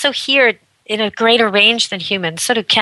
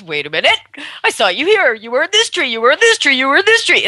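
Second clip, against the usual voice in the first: high, insistent puzzled dog voice; the baffled dog accusing the squirrel; dog arguing with a squirrel, high and bewildered; confused dog; 6 semitones higher, faster than usual. Retold or imitated. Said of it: "the dog goes".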